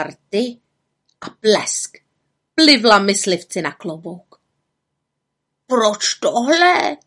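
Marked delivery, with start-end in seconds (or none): 5.7-7.0 slow, higher raven voice; Abraxas. A narrator's reading. Raven questions the witch's prank, croaking. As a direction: draw the question out like a puzzled bird. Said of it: "zeptal se Abraxas".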